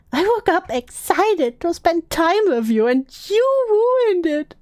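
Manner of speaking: acted hurt reproach, pitch climbing at the end; mock aggrieved whine, rising; mock hurt accusation. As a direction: read it as an overdramatic wounded complaint. Reading out angry accusing texts.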